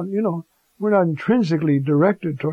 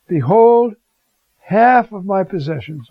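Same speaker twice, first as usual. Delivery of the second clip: proclaiming; 4 dB louder than usual. Acted. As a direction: announce it to the crowd. Zacchaeus proclaims his giving.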